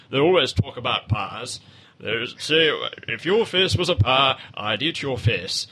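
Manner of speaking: lightly put-on northern English accent; a hint of a Manchester voice. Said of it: "normal people usually sound like this".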